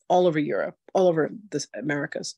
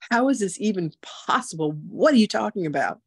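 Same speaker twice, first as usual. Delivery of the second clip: stunned whisper; 5 semitones higher than usual. Retold or imitated. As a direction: hush it out in shock. Reacting to spirits' revelation.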